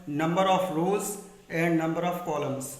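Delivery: each English term drawn out, very slow; slow dictation. Shown as a demonstration. Teacher naming the English terms for students, very slow and deliberate. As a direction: spell it out slowly so the class can note it. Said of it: "teacher spelling out English terms".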